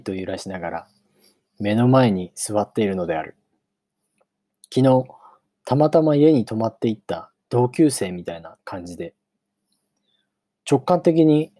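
measured audiobook reading with long pauses; story narration. A narrator's reading. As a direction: read it out as a storybook opening. Narrates the novel. (間を取った物語の朗読)

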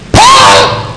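very high shouted Paul; shouted name. Real, not acted. Preacher crying out the apostle's name to the congregation, very high shout.

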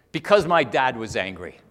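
retold anger, loud and emphatic. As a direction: imitate a woman's bitter, angry account. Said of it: "she said it with anger in her, in her voice".

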